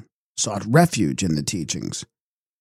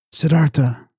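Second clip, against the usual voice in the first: lamenting cry; 4 semitones higher than usual. A narrator's reading. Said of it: "he exclaimed lamentingly".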